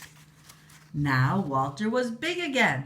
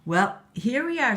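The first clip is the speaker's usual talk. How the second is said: queen voice; 7 semitones higher, 5 dB louder than usual. Acted. Queen's voice in a story.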